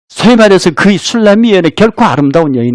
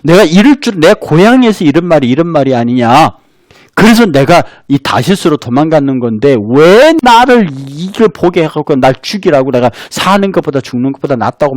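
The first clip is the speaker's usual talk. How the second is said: angry Jonah. Retold or imitated. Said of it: "요나가 화를 내요".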